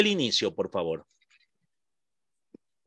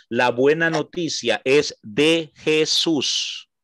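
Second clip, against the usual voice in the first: La buena noticia es de Jesús, slow and louder, each word weighed; stress on Jesús; 4 dB louder, slower than usual. Shown as a demonstration. Teacher to his class, slow and louder, stressing de Jesús. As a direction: slowly stress that the good news is de Jesús. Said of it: "Así, a secas, de Jesús, no Jesucristo".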